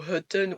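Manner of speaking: "heten" with first E said like French "eu"; wrong "eu" vowel. Shown as a demonstration. Teacher showing another mistake to avoid, wrong "eu" vowel. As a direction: say "heten" as "heu-ten". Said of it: "tu ne vas pas dire".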